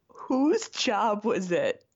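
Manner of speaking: drawn-out mock bafflement, with a pause; retold disbelief. Host recalling reading about samples, retold disbelief. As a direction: wonder slowly who got stuck with it. Acts out own baffled reaction.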